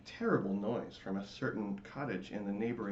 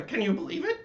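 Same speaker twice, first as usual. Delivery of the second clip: very high, loud squeaky wail; crying latke; 14 semitones higher, 8 dB louder than usual. Acted. Latke complaining to the lights, high wailing squeak. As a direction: squeal out your pain. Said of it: "the latke cried in reply".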